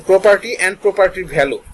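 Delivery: very slow "property and property value"; slow, word by word. Shown as a demonstration. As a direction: spell out "property and property value" slowly. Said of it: "teacher repeats term slowly".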